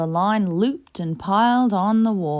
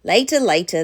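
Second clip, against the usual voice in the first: brushing off; 7 dB louder than usual. Acted. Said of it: "replied Akka".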